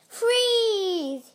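high, drawn-out shout of "Freeze!"; shouted command. A narrator's reading. Super Potato stopping the evil pea, shouted. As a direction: call it out like a hero making an arrest. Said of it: "he shouted".

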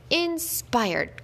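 an entertainer cheering the dog; cried out. A narrator's reading. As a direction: exclaim in delight, pitch lifted. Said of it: "cried the most important artist".

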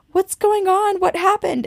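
high-pitched, startled questions. Retold or imitated. Friends confronted by panicked runners at the car, startled. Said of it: "They were obviously startled".

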